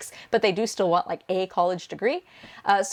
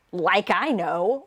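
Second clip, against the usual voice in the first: slow, dismissive "like I know"; sarcastic; much slower than usual. Shown as a demonstration. Tutor demonstrating sarcastic shiru ka, slow and scornful. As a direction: drag it out with sarcasm. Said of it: "It's more a sarcastic sort of thing".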